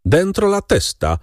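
high-pitched order, volume held back; narrated yell of command. A narrator's reading. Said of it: "wrzasnął ktoś rozkazująco".

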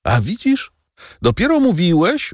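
mock triumph, pitch jumping up; horrible laugh. A narrator's reading. Wife taunts her husband, mildly laughing and high. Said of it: "z okropnym śmiechem".

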